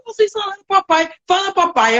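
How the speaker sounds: high, thrilled cry of surprise; excited. Retold or imitated. Nanny overjoyed the boys said papai. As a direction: gush as if you can't believe it. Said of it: "comecei a gritar".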